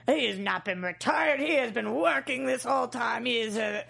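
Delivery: a hint of a gruff ogre; lightly voiced gruff man. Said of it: "your impression of both Mike and myself".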